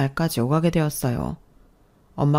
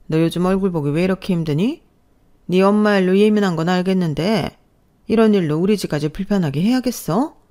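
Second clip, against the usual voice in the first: lightly voiced reproachful mother-in-law; nagging mother-in-law; 2 semitones higher, 3 dB louder than usual. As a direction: needle her with pointed questions. (은근히 타박하는 시어머니)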